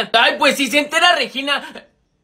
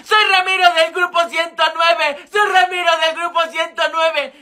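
higher-pitched mock yell; re-enacted yelling; 4 semitones higher than usual. Telling a friend how he yelled while being stoned, mock shouting. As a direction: plead your identity in a pretend shout. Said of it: "yo les gritaba".

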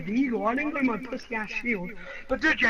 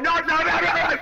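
loud, higher-pitched cries of no; rapid-fire mock alarm, raised voice; retold protest; 6 semitones higher, 6 dB louder than usual. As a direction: replay a burst of alarm. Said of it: "I was like".

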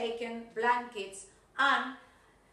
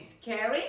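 "Scary" said as a rising echo question; rising intonation. Shown as a demonstration. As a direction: lift the end of "Scary" to query it. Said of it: "falling and rising intonation".

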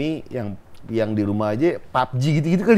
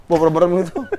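ordinary delivery

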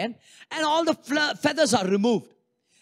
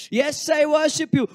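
shouted worship; 6 semitones higher than usual. Acted. Acting a distracted worshipper praying.

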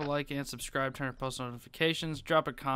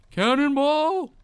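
high drawn-out cannonball yell; 12 semitones higher, 9 dB louder, slower than usual. Real, not acted. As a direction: yell it as you jump. Jumping into the sewer.

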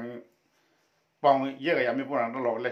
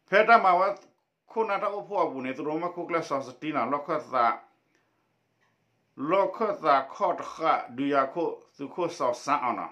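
raised, projected read-aloud voice; 4 semitones higher, 5 dB louder than usual. Acted. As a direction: read the text out to a class in phrases. Reads a text aloud.

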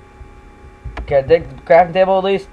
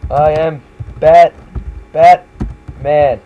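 Batman voice; 4 dB louder, much slower than usual. Retold or imitated. Batman impression louder.

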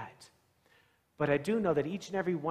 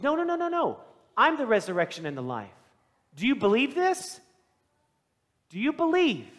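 higher and louder, pressing the question; emphatic preaching shout; 7 semitones higher, 6 dB louder than usual. Retold or imitated. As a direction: proclaim it like a preacher at full force. Jesus answers Martha forcefully.

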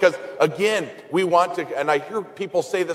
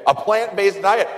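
higher and louder, rising in mock disbelief; incredulous repeat; 6 semitones higher, 3 dB louder than usual. Priest scoffing at the diet advice, incredulous rising repeat. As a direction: toss it back as if it's absurd. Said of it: "that's ridiculous".

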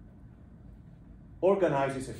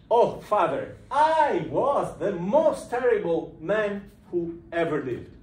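theatrical confession; 4 semitones higher, 6 dB louder, slower than usual. Retold or imitated.

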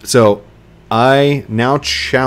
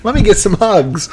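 much higher, bubbly excited voice; happy Ziggy voice; 10 semitones higher, 4 dB louder, slower than usual. Retold or imitated. Ziggy cheering for hugs, much higher. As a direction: squeal it like an eager friend. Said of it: "Ziggy's like".

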